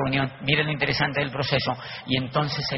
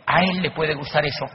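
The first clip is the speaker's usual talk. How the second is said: starry-eyed gushing; 5 semitones higher than usual. Retold or imitated. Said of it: "se le iluminaba la cara".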